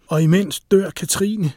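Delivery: loud, high, drawn-out accusation; shouted. A narrator's reading. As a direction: shout it slowly at him. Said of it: "råbte Lise".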